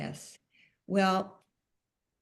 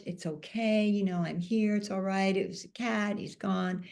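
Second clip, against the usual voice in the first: mildly comforting, lightly voiced; a friend soothing, a touch offhand. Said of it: "trying to be helpful".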